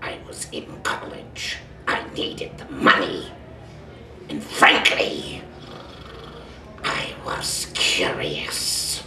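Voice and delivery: slow, breathy reluctant admission; a proud warrior owning up, very slow; slow, hushed in-character confession; Dinobot confessing. Acted.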